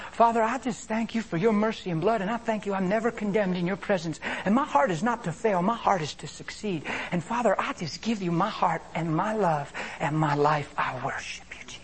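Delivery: earnest thanks, softening at the end; heartfelt prayer. Acted. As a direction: pray sincerely, settling into worship. Models a prayer answering the accusing thought.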